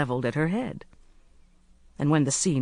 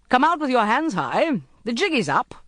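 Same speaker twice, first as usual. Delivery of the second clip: high, raised call; 7 semitones higher, 4 dB louder than usual. A narrator's reading. Second voice ordering surrender from outside, calling out. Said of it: "a second voice called".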